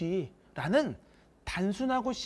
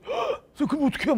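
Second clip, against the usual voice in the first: high, loud shocked gasp then plea; 9 semitones higher, 3 dB louder, faster than usual. Retold or imitated. Student gasps at teacher's blunt answer, shocked. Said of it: "막 이러는 거야".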